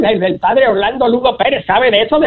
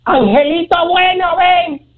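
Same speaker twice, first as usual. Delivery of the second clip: calling sweetly; 8 semitones higher, slower than usual. Acted. Calling to the good angel.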